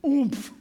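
oomph punched out short and loud; punchy oomph. Shown as a demonstration. Preacher naming the Hebrew emphasis with a punchy oomph. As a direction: give the word oomph a hard push. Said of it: "You know what oomph is".

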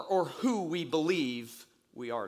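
normal talking voice

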